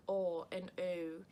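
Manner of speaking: "or" and "o," placed forward in the mouth; front-of-mouth vowels. Shown as a demonstration. Vlogger explaining the Queen's accent, "or" and "o," made at the front of the mouth. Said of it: "they speak much more in the front of their mouths".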